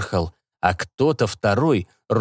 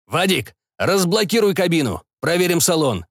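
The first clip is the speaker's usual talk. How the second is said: commanding; 6 semitones higher than usual. Acted. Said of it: "продолжал командовать Пак".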